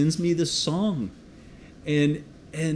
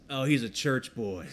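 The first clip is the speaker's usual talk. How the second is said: laughing mock gang member; 4 dB quieter than usual. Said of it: "one guy says".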